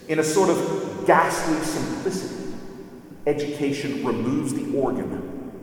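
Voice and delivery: measured, weighty reading of a quoted passage; dramatic reading. Acted. Lecturer reading Lewis's warning to the class, solemn reading. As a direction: read Lewis with solemn gravity.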